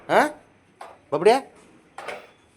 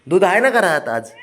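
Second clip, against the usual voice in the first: coaxing question; 8 semitones higher, 6 dB louder than usual. Real, not acted. Asking the dog, high and bright.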